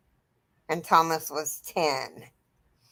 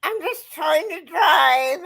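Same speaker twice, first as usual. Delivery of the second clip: high, slow, cry-laughing; fighting off the giggles; holding back laughter; 8 semitones higher than usual. Real, not acted. Mother trying not to laugh while driving, high and cracking. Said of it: "trying real hard not to laugh".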